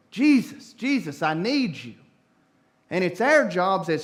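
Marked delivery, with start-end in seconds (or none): 0.1-1.9 louder, much higher cry; hollering. Retold or imitated. Somebody in the crowd hollering to Jesus, desperate cry.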